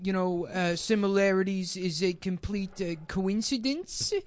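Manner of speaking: halting put-on comedian voice; Seth Dickfield. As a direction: lightly caricature a comedian stumbling through a disclaimer. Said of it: "this is just a cruel impression".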